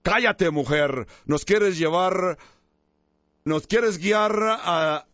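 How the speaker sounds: a light, understated telling-off of the woman; angry retort. Acted. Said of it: "gritó y le dijo".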